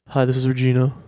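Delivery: lightly mimicked unfriendly agent; a hint of someone who hates everybody; hateful phone agent. Airline agent answering a customer's call, mildly hateful. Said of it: "She sounds like she hates everybody".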